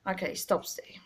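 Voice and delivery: unvoiced hushed aside; whispered aside. Real, not acted. Telling herself to stop, whispered aside. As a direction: drop to a whisper to cut yourself off.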